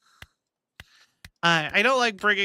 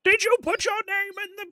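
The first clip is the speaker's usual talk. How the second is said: much higher, fast, hammed-up movie voice; movie character ham. Mocking the movie version's character, hammed-up and high. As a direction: blurt it like an overacted film wizard. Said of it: "the character is just".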